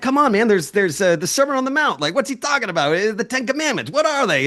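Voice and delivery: high-pitched "come on, man" disbelief; incredulous challenge. Retold or imitated. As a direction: needle them with the obvious answer. Retold argument, incredulous challenge.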